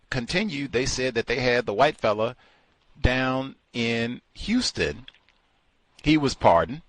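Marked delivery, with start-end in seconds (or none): none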